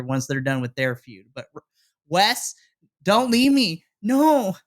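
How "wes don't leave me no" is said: mock crying plea. Real, not acted. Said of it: "I was starting to cry".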